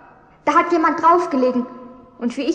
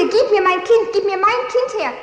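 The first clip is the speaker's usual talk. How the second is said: pleading yell; retold scream; 6 semitones higher than usual. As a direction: cry it out, desperate. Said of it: "Ich schreie".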